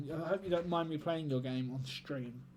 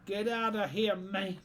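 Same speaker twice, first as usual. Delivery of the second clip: loud, higher get outta here, man; shouted dismissal; 6 semitones higher, 4 dB louder, slower than usual. Shown as a demonstration. Streamer shouting it to chat, loud and playful. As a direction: bellow it at anyone without banter. Repeats phrase, second time shouted.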